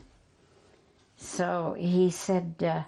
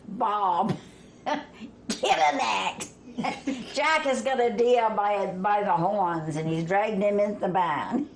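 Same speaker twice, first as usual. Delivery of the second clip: retold panicky yell. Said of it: "And he screamed".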